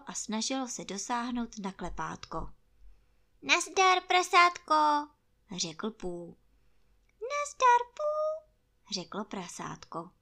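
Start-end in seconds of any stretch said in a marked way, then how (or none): 3.4-4.8 high, cheery hello; friendly bear greeting. Acted. Pú grüßt Ferkel. 7.2-8.4 very high, small piglet voice; tiny piglet. Acted. Ferkel grüßt zurück.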